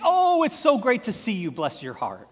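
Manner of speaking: high, loud, sugary greeting that falls into a sneer; mock-friendly hello with a catty edge; put-on sweet Southern politeness; fake sweetness. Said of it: "That's grumbling".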